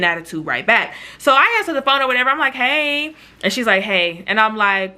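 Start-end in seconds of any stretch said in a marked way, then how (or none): 2.5-3.1 higher, light "hey"; friendly greeting. Retold or imitated. Answering the friend's call, friendly and open. Cheerful greeting before her irritable reply. 3.8-4.2 lower, curt-sounding "hey"; irritable greeting. Retold or imitated. Irritable friend on the phone, low mild attitude. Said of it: "She was irritable".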